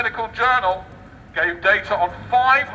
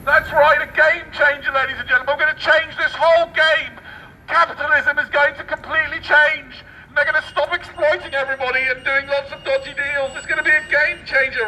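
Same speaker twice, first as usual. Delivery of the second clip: sarcastic rant; 3 semitones higher than usual. Acted. Sarcastic rant on game changer.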